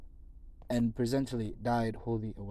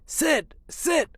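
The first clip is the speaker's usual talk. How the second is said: high, loud "Sid!" to wake him; urgent call; 9 dB louder than usual. Acted. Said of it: "He said".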